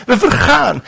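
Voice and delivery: high, fast panicked cry for help; panicked disciples. Acted. Disciples in the sinking boat begging Jesus, panicked. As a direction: cry out like men sinking in a storm.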